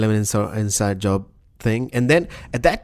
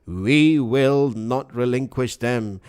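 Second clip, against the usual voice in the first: Alex Jones; slower than usual. Acted. Co-host quoting a furious gun tirade, ranting impression. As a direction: hammer out a defiant rant, stretching the last words. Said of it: "your Alex Jones impression".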